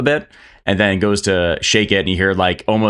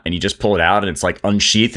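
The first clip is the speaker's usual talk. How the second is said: ordinary talk, nothing marked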